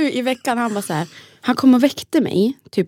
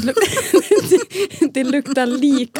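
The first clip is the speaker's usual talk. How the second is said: slow, higher, with laughter breaking in; laughing disgust; 4 semitones higher, much slower than usual. Real, not acted. Telling her friend about her daughter's diaper, laughing in disgust.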